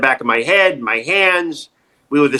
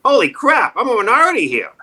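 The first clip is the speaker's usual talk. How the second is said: mock realization; 6 semitones higher than usual. Acted moment of sudden realization.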